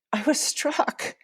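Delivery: slowed, choked-up retelling; emotion welling up. Real, not acted. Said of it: "all the emotions are coming back up".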